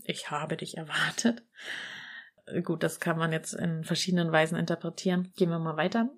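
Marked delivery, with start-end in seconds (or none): 0.0-1.4 quieter, slightly deeper octopus voice; hint of a menacing deep octopus. Shown as a demonstration. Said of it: "ein bisschen was Bedrohliches".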